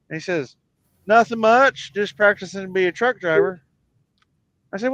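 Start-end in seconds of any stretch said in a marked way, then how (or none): 1.0-3.6 put-on kid voice. Kid's voice in joke.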